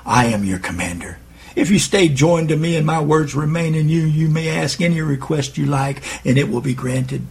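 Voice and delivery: a touch of gentle, loving calm; gentle and assured. Acted. Jesus answers the excited listener, gentle, loving, assured. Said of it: "says gently and lovingly, yet assuredly".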